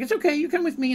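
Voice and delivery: put-on high, coaxing reassurance to a child; gentle reassurance. Dandy comforts a scared girl.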